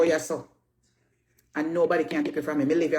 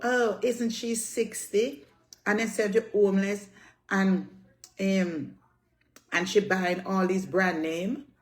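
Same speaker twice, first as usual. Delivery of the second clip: mocking the critics; 2 semitones higher, slower than usual. Mimicking online gossipers with a slow sneer. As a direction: drag it out like a gossip. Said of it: "come and talk about".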